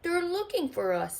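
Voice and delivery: Skeleton voice. A narrator's reading. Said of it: "said Skeleton".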